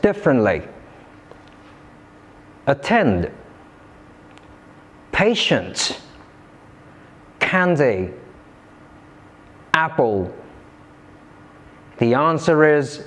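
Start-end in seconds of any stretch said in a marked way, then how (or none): 2.7-3.3 "Attend" said a-TEND; "Attend" with a short first syllable and weight on "tend"; second-syllable stress. Shown as a demonstration. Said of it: "It has stress on the second syllable". 5.1-10.3 "patient, candy, apple" said PA-tient, CAN-dy, AP-ple; "patient, candy, apple", each front-stressed and falling away; first-syllable stress. Shown as a demonstration. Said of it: "the other three have stress on the first syllable".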